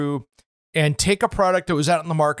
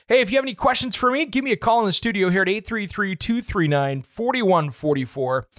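fast; 3 semitones higher than usual. Real, not acted. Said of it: "I'll say it a little slower".

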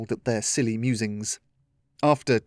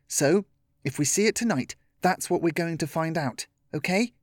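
higher, lightly voiced young leader; Chloe explaining; 5 semitones higher than usual. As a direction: answer the group as a child with a plan.

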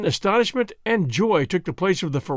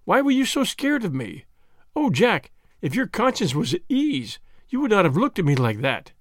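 anxious pleading; 4 semitones higher than usual. Acted. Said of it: "she cried".

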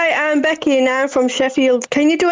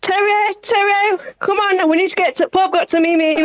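lightly voiced Yorkshire mum calling; a hint of a Sheffield mum; mum impression; 2 semitones higher than usual. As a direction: mum calling Terry to the pub. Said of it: "I'll do me mum".

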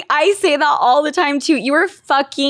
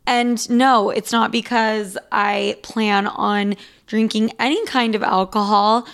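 a hint of a soft podcast ad read; 3 semitones lower, 3 dB quieter than usual. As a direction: read the sponsor spot lightly. Host reads sponsor ad.

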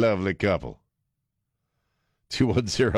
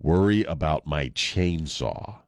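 tough woman quote; slower than usual. Retold or imitated. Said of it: "And Pam Grier says".

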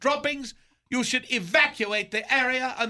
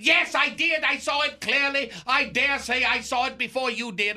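indignant outburst; 2 semitones higher than usual. Retold or imitated. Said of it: "He erupted".

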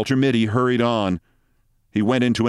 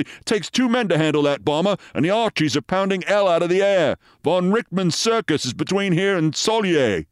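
high, anxious sergeant protesting; 9 semitones higher than usual. A narrator's reading. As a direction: plead with your captain, high and worried. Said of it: "said the sergeant anxiously".

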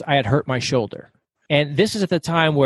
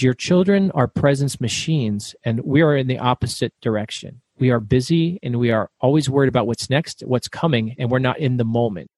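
calm acupuncturist; 3 semitones lower than usual. Retold or imitated. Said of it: "He is slow and methodical and calm".

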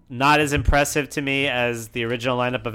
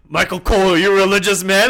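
mock interviewer; 5 semitones higher, 8 dB louder, faster than usual. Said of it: "He goes".

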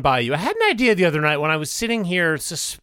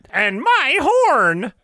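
solemn oath parody; 6 semitones higher, 4 dB louder, much slower than usual. Retold or imitated. Parodying Council of Elrond.

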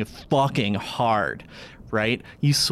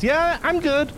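put-on high, little old lady voice; a zombie speaking like a granny. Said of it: "your zombies just sound like your old lady voices".

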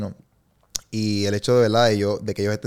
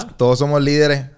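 catchphrase shout; 5 semitones higher, 6 dB louder than usual. Acted. Guest shouts his catchphrase.

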